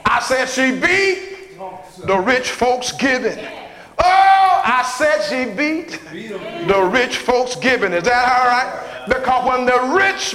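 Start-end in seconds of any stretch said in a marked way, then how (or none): 0.1-3.4 preaching refrain pushed harder. Acted. Repeated refrain, louder. 4.0-7.9 preaching whoop. Acted. Preacher whooping to the congregation about giving.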